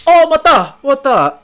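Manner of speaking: high, loud mock delighted reaction; imitated talk-show amusement. Streamer imitating Korean talk-show guests, delighted high exclamation. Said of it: "Korean talk shows".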